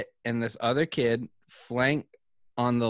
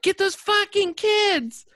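much higher and louder, a hammed-up frantic woman; mocking a woman; 5 dB louder than usual. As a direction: yell it up high like the panicked lady in the club. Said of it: "this woman is like".

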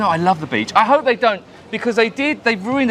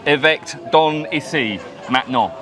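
a hammed-up French tour guide; mock French accent; 4 semitones lower than usual. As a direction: fake French accent, slow. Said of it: "new French tour guide here".

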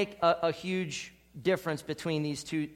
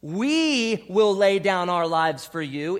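bold group vow; 6 dB louder, slower than usual. Acted. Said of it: "It wasn't".

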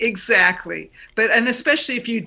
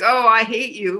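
a hurled, furious yell; angry yell; 4 dB louder than usual. Shown as a demonstration. Coach showing the wrong kind of beach yell, shouting. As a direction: shout it out at someone you hate, loud. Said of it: "not like".

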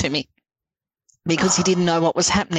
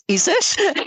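high-pitched, incredulous question; amazed disbelief; 12 semitones higher than usual. Retold or imitated. Woman reacting to Yuri's message, amazed disbelief. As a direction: act out astonished doubt, voice jumping up. Retells first reaction to the photo.

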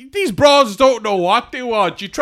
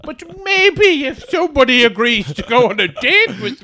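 mock victim; 5 semitones higher, 3 dB louder than usual. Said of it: "you call the guards".

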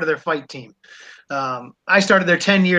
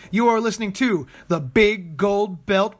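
mock olde english; slower than usual. Renaissance troupe intro bit.

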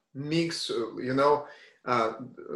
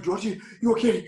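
attempted Scottish accent; 4 semitones higher than usual. Scottish friend checking on him on stage, attempted Scottish accent. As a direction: try a Scottish accent, raised at the end. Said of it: "my Scottish accent".

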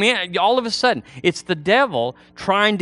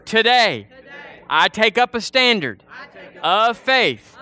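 higher, declarative phrases with pauses for repetition; led prayer; 6 semitones higher than usual. Real, not acted. Preacher has congregation repeat repentance after him, led prayer. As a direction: lead the congregation line by line in prayer.

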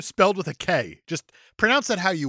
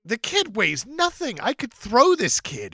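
slow, lightly put-on brute boast; a hint of a hulking bragger, drawn out; lightly voiced strongman; 7 semitones higher, slower than usual. Red Sonja scoffing at the kid's weight, lightly put-on slow boast. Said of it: "It's like".

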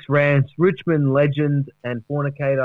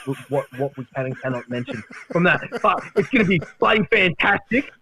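higher, hyped boasting; mock excited Duck; 3 semitones higher than usual. Duck boasting to the panel about his movie, higher and excited. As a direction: brag like a washed-up star.

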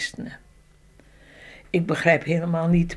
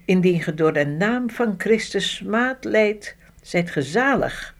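scripture reading. Acted. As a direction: read the verses like a preacher. Reads Bible passage aloud.

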